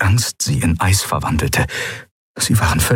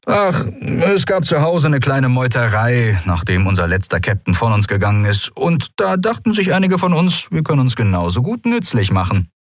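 lightly voiced cocky pirate; 4 semitones higher than usual. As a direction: explain it with a pretend shrug. Voices the grinning young pirate.

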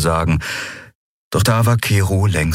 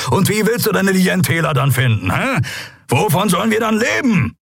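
higher, harsh lecturing rant; angry scolding; 9 semitones higher than usual. A narrator's reading. Kero scolding the captain and crew, angry. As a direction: tear into them.

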